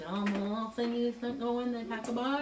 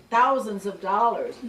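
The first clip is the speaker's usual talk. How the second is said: laughing; 11 dB louder, slower than usual. Retold or imitated. Manager stresses the huge sum.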